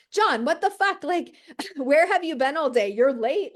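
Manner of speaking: high, loud nagging wife scolding; mock nagging yell. Bartender yelling at a businessman like his nagging wife. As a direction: scold him like a wife when he walks in late. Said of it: "I would yell at them".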